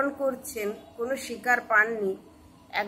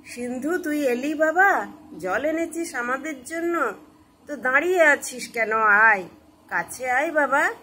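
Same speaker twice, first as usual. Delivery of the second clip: put-on raised, eager call to a child; parents calling out; 3 semitones higher, 4 dB louder than usual. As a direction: call your son over, lifting pitch and volume. Blind parents call to their son. (ছেলেকে উঁচু গলায় ডাকা)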